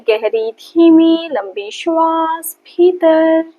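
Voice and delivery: slow, sustained, stretched-out breath cues; measured yoga-teacher breathing count on a held tone; guided breathing. Acted. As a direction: draw each word out to pace a long breath. Cueing the breath before Om.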